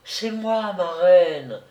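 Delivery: softly spoken. Acted. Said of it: "fit tout bas mademoiselle de Vaujade".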